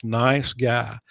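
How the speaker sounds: mean "Nice guy" this time; sincere nice guy. Real, not acted. Host taking the jab back about his colleague, sincerely. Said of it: "No, love him to death".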